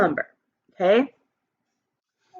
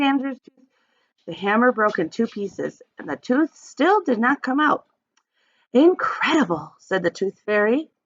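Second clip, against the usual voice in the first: put-on expressive read-aloud for young kids; storybook reading. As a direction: read it like story time for the class. Teacher reads picture book aloud.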